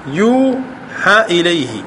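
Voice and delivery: slow, stretched reading of the verse; slow recitation. Shown as a demonstration. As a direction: linger on يوحى to show the ending. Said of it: "أصله يوحى هكذا بالألف". (تلاوة بطيئة مع مدّ يوحى)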